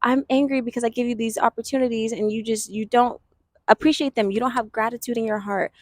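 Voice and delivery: mild stern-parent rebuke; mock angry parent. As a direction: lecture the lazy child, half-acted. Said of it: "a parent's angry at the child because the child is lazy".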